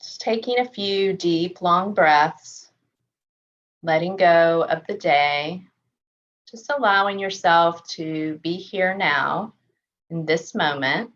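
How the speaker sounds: calm, measured meditation voice with long pauses; unhurried body-scan guidance, settled and even; guided meditation. Real, not acted. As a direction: gently guide them through a body scan, leaving space to breathe.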